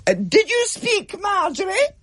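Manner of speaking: strict teacher calling out a whispering pupil, icy; sharp schoolmistress. A narrator's reading. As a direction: catch the girl talking in line. Teacher catches talking.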